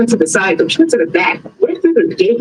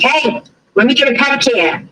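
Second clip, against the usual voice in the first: put-on Boston accent; 5 semitones higher than usual. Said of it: "he couldn't say pedicure".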